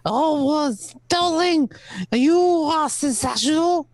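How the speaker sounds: a light French accent, playing the charmer; lightly hammed-up French accent for wooing the ladies; a hint of a French lover's accent; mock French accent. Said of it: "in the whispers of my French accent".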